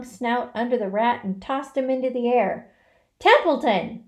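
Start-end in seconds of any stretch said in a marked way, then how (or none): 3.2-4.0 high, loud yell; urgent scream. A narrator's reading. Pig wakes sleeping rat, urgent scream. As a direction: yell to jolt someone awake. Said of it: "screamed Wilbur".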